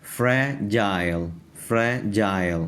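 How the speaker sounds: فریجائل in two slow parts, "fre" then "jail"; teacher breaking فریجائل into fre and jail; syllable-by-syllable pronunciation. Shown as a demonstration. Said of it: "تو اب ہم اس کو پڑھیں گے جائل".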